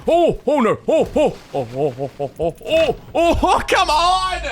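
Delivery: fleeing the monster, flustered; panicked flustering. Real, not acted. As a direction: stammer in rising panic. Panicking flight.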